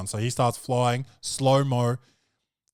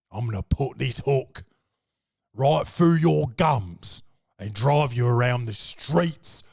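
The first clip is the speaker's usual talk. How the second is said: Cockney pirate threat. Retold or imitated. The blind pirate threatens a man in a hammed-up Cockney accent. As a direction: menace him like a one-eyed Cockney pirate. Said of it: "He's like".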